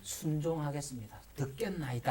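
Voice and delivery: demonstrated prayer, softening toward the end; obedient prayer. Acted. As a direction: pray submissively, like a servant before the master. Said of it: "하는 태도가 신앙생활이라".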